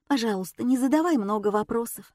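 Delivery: usual speaking voice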